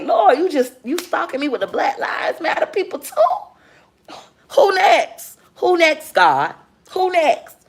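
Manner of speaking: high, incredulous complaining to God; exasperated at God. Retold or imitated. Complaining to God that he stalks her, high and incredulous. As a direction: throw it at God, high and disbelieving. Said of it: "that's how I was talking to him".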